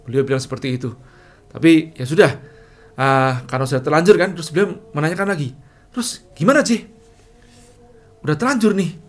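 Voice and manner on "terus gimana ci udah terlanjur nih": suara bos lebih tinggi dan sedikit keras; bos heran. Retold or imitated. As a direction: tirukan bos yang kebingungan. Bos bingung bertanya. (bos bertanya heran, suara tinggi)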